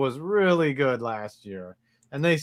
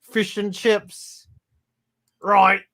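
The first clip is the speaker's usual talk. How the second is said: higher, stretched-out mock British; British accent; 5 semitones higher, much slower than usual. Shown as a demonstration. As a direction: ham up a British accent, slowly. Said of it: "all you gotta do to do a British accent".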